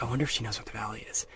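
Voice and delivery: soft, fast, worried aside; murmured to himself, quick and anxious; quiet inner worry. Retold or imitated. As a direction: rush it under your breath, nervous. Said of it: "And then I'm like".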